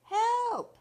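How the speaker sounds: high, loud cry for help; loud high panicked call; yell for help. A narrator's reading. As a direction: shout for help from the tree. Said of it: "Chucky yelled".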